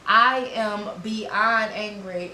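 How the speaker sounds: slowed fed-up declaration; mild retold anger. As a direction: lean into being fed up. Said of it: "I'm so angry".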